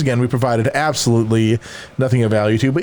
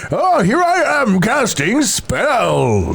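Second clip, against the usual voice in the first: put-on slow, high old wizard; 7 semitones higher, much slower than usual. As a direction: drawl it like a doddering wizard. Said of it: "It's either wizard".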